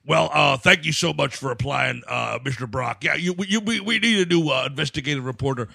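fake interviewer voice. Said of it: "that voice you're using, that's fake".

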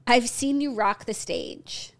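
slow, lightly mocking quote; mildly hammed-up cringe delivery; Travis Kelce imitation. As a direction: imitate a cringey line, drawn out. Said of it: "why do you have to say it like that".

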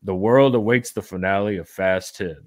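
measured, mock-solemn letter reading; lightly grand narrator delivery; documentary narration. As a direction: read it as an old letter in a documentary. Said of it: "this is like a Ken Burns documentary".

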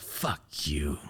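low, very soft curse; seething contempt. Retold or imitated. Son passing mom with a cigarette, quiet contempt. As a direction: keep the resentment under the voice, quiet. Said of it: "That's how I felt".

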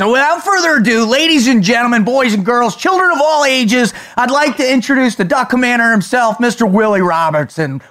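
booming circus ringmaster intro. Acted. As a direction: announce him like a big top ringmaster. Host introduces guest like announcer.

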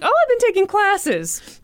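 high, airy imitation of a cover story; put-on voice, imitated. Host mimics her explaining away her Brooklyn accent, put-on voice. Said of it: "she put on a voice".

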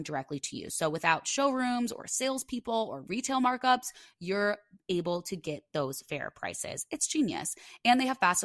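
lively podcast sponsor read. Real, not acted. Host pitching outdoor furniture to listeners, ad read.

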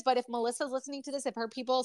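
talking while gulping; swallowing. Real, not acted. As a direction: speak through a swallow. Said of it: "sorry, just gulp".

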